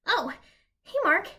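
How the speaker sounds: high, bashful squeaky greeting; bashful stutter. Acted. President greeting his visitor, bashful and high. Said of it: "he stutters bashfully".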